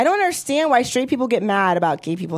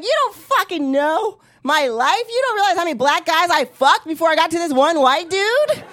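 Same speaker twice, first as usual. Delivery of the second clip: angry retort; 4 semitones higher than usual. Retold or imitated. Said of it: "I got so angry".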